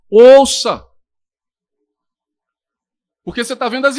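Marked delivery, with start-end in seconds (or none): 0.1-0.9 a loud shout of Ouça; loud command. Real, not acted. Preacher shouting at the congregation to listen, loud. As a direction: hit Ouça hard, demanding attention.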